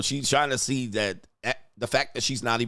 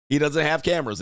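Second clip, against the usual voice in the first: mocking the drunk friend; 4 semitones higher than usual. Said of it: "same shit".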